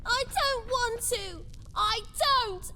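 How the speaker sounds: put-on petulant child refusing; childish tantrum. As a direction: stamp your foot and refuse.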